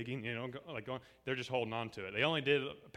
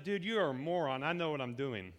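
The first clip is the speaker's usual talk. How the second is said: mock arrogant. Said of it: "can you imagine if I turned around and said".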